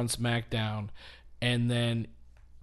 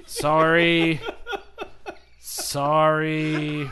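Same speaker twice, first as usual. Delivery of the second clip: louder sorry, broken by real laughter; laughing apology; 3 semitones higher, 7 dB louder, much slower than usual. Real, not acted. Host apologising to co-hosts for his joke, laughing. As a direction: laugh through the apology, trying to stop.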